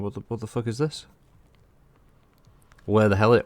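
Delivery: mock Cockney outrage, lightly done; southern English accent. Streamer imagines absent friend griping at his gameplay, mock Cockney accent. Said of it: "with a southern accent, of course".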